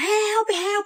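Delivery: very high, shrill, frantic, unhinged screaming. Recounting being grabbed and yelling for help, retelling frantic screaming. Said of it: "igual uma louca".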